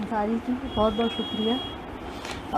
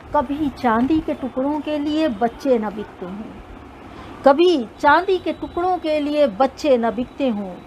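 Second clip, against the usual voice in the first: measured, lilting poem recital; stately nazm recitation; 2 semitones higher than usual. Acted.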